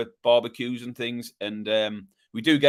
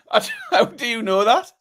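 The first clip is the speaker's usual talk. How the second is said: astonished; 9 semitones higher than usual. Real, not acted. Stunned by the correct guess.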